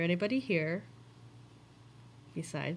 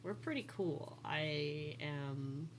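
talking to a ghost; 3 semitones lower, 10 dB quieter than usual. Real, not acted. Coaxing the ghost softly.

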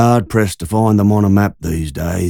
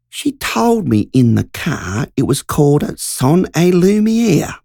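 a touch higher, eager country woman retelling; lightly voiced Margie; 4 semitones higher than usual. Woman telling the men about the show, lightly voiced and eager. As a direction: tell the men the news, breathless and keen.

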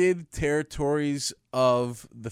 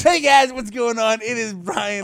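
mock intro voice; 8 semitones higher, 8 dB louder than usual. Imitating Brian's intro.

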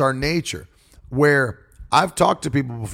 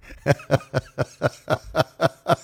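long, evenly pulsed laugh; staccato laugh. Acted. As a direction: laugh in steady, separate bursts. Mimics laughing after "it's like.

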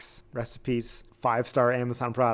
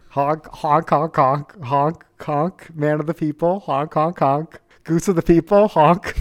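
gloating honks; 2 semitones higher, 3 dB louder than usual. Pretend. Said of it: "gloatily honk over here".

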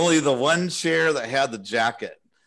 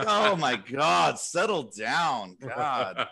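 slow, drawn-out retold groan of disbelief; mock weary exasperation; exasperated; much slower than usual. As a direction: tell someone to calm down, slowly. Retold exasperated reaction to the complaint.

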